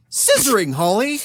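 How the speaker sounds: high, loud scandalized yell; hammed-up indignant outburst; outraged exclamation. A narrator's reading. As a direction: shout it in appalled disbelief at your wife. Acted outraged husband in story.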